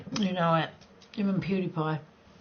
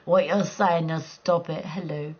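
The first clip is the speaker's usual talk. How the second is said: stern inner voice; 5 semitones lower, slower than usual. Retold or imitated. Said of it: "My voice inside my head".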